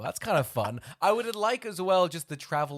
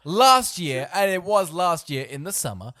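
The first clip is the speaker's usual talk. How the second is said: incredulous protest; 7 dB louder than usual. Acted. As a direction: blurt it out, baffled and accusing. Acting out disbelieving confrontation with fisherman.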